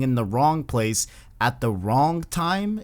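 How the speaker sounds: slow, stretched out phrase; slow and emphatic. Acted. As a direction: drag it out to make the point. Repeating phrase, slowed for emphasis.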